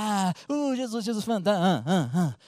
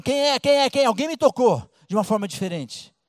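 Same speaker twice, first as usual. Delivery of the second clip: Jesus insistindo; 4 semitones higher, 4 dB louder than usual. Acted.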